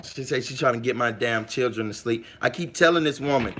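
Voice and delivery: ordinary talk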